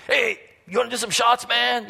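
high, lightly voiced pushy drinker offering shots; pestering drunk guy. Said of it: "he just kept pestering me".

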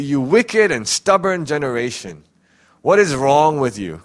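harsh rebuke. Retold or imitated. Jesus rebuking the crowd, mock harsh scolding. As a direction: scold the stubborn generation. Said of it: "Doesn't Jesus sound a little bit harsh".

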